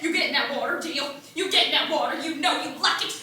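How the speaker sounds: stern father. Acted. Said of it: "raised up his hand and said".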